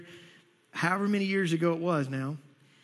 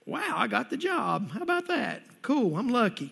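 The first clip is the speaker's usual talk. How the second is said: lightly acted happy surprise, pitch swooping up; mock casual amazement; 3 semitones higher than usual. Preacher imitating someone who got the job, mock amazement. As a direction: play pleasant surprise at a stroke of luck. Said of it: "You're gonna be just like".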